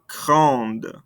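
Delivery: "grande" with an audible N and D at the end; sounded ending consonants. Shown as a demonstration. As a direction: close "grande" on a released D. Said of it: "makes us pronounce those ending consonants".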